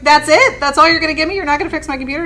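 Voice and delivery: high, loud exasperated questions; annoyed teacher scolding the tech lady, high and loud; indignant disbelief. Retold or imitated.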